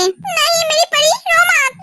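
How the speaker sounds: put-on slow, coaxing baby-hushing; acted tender pleading; soothing father. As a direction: stretch the words out to comfort a crying baby. Father soothing his crying baby.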